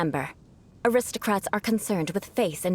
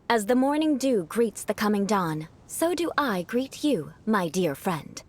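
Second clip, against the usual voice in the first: aristocratic greeting demo. Shown as a demonstration. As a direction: recite it like a noble at court. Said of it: "for example".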